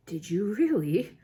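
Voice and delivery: slow, nervous question; a mild nervous stall; a touch of nerves, slowed down. A narrator's reading. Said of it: "said Mister Weasley nervously".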